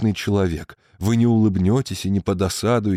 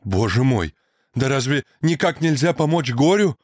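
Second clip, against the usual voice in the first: higher, desperate exclamation; despairing cry; 6 semitones higher, 3 dB louder than usual. A narrator's reading. Young man crying out in despair to Nastenka, loud. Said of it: "закричал я".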